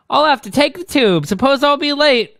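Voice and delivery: high, bad English accent slowing at the end. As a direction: put on an amateur Londoner heroine voice. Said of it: "I can't do this accent".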